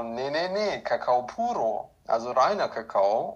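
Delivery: lightly voiced vendor, a hint of insistence; market vendor. Peruvian cacao seller corrects the German tourist, lightly voiced and mildly insistent. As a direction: correct him gently, voice barely changed. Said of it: "Und der so".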